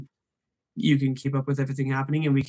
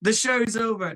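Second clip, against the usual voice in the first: mock dismissive; 7 semitones higher than usual. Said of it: "No, I'm just kidding".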